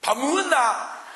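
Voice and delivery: slow, loud, curt Gyeongsang husband; gruff to wife. Retold or imitated. Gyeongsang husband asking his wife if she ate, slow and loud. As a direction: toss it at the wife slow and blunt. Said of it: "마누라한테 밥 먹었냐고 물어볼 때 보세요".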